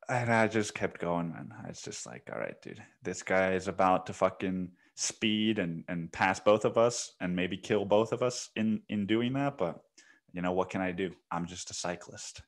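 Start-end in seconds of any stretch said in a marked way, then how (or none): 2.3-12.4 muttered to himself, much softer; resigned thought under the breath; quiet inner thought. Retold or imitated. Cyclist thinking to himself as the car passes, quiet resigned mutter.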